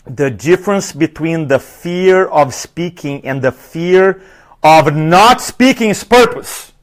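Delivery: slow, deliberate dictation pace, word by word; measured, slow note-taking delivery. Shown as a demonstration. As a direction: spell it out slowly so they can write it down. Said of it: "Write this down".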